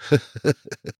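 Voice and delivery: a quick amused chuckle; short laugh. A narrator's reading. Ershov laughing before he hangs up, short chuckle. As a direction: laugh it off lightly. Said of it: "рассмеялся Ершов".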